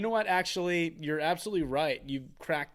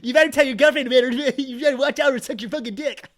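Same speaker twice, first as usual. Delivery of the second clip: high, loud threat broken by laughs; laughing mock threat; 10 semitones higher, 13 dB louder, faster than usual. Cohost mocking the daughter's threat, laughing loudly. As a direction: threaten through giggles.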